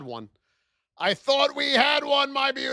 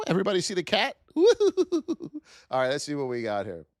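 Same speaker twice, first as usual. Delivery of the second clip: ordinary talk, nothing marked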